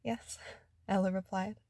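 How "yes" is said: a high, breathy yes; high and breathless. A narrator's reading. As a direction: gasp it out, high. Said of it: "her voice high and breathless".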